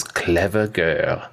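Muldoon quote. Retold or imitated. Podcaster quoting Muldoon's last words, slow grim. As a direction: murmur it slowly as you lose. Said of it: "he goes".

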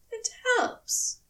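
grudging. A narrator's reading. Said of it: "the angel allowed, grudgingly".

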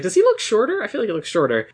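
high, incredulous squeak on the first part; mock surprised whisper-to-friend; squeaky surprised question. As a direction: ask it in a sudden high squeak. Bonnie asks Russell about him.

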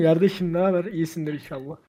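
local Kozlu greeting in Zonguldak dialect; Zonguldak accent. Acted. Greeting a friend back in Kozlu, Zonguldak accent.

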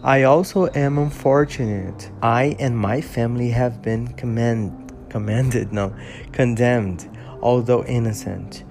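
measured English audiobook reading, steady and clear; story narration. Acted. Reading Frankenstein to his followers, calm storytelling narration. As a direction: read the novel aloud like an audiobook.

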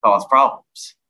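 mock Southern country twang; redneck accent. Comic turning redneck among country folk, mock Southern accent. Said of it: "really dumb country rednecks".

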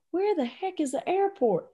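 high-pitched, flustered question; flustered panic. Retold or imitated. Coach lost in rental car, flustered. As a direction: ask it as if lost under pressure. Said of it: "I don't think I handle pressure very well".

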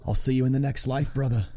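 put-on Scottish accent, quoting a TV line; Scottish-accented farewell to a brother; Desmond from Lost. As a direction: do a fan's Scottish impression. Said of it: "accent work is based on Desmond".

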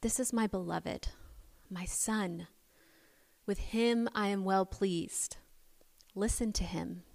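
softly voiced divine voice from the clouds; hushed, tender pronouncement; God's voice. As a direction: speak it gently and quietly, with unhurried pauses. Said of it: "the voice says".

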